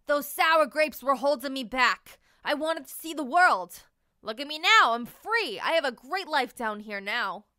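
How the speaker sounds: loud, proud and bragging; boastful raisin. Acted. Raisin boasting to Marshall, loud and proud. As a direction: brag loudly about being free.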